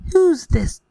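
mild storybook outcry; understated prince's outcry; cried out. Acted. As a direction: cry it out as a royal order, held back. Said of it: "The prince cried".

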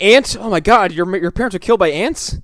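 high, incredulous questioning; mock astonishment. Host voices friends misreading the bloody clue, mock astonishment. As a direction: imitate shocked friends, pitched well up.

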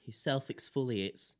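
slow, laughing punchline; laughing slowly. Real, not acted. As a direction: drawl it out through laughter.

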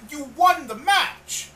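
high, loud, slow shout; mock exasperated yell. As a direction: yell it at him in disbelief. Yelling at Roddy about it.

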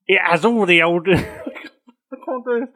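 laughing through the words; cracking up, unable to go on. Real, not acted. Host giggling through the pirate pitch, laughing.

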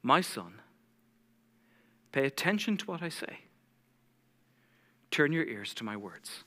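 soft, slow scripture reading with long pauses; unhurried, gentle and low, phrase by phrase; deliberately slow reading. Shown as a demonstration. Preacher repeating the verse so his church listens, read slowly. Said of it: "I'm gonna read it one more time".

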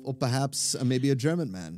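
playful German man voice; German accent. Pretend. Host suggesting himself as guest, German accent. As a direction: offer it in a mock German accent. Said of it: "I like the German".

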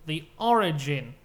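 slow, loud, drawn-out reveal; grand announcement of the sorority; dramatic announcer. Acted. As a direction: boom it like a movie trailer. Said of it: "grand reveal".

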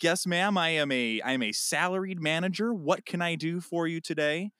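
bright, polite phone-service voice; sweet professional voice for a customer. Retold or imitated. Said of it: "almost exactly in that, in that tone".

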